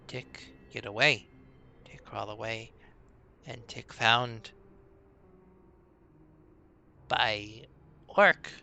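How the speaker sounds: a scared small creature fumbling for words; nervous goblin. Acted. GM voices goblin Tick.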